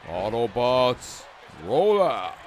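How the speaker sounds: slow, heroic robot leader's command; hammed-up heroic battle call; Optimus Prime. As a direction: draw it out like a commander rallying troops. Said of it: "Optimus Prime".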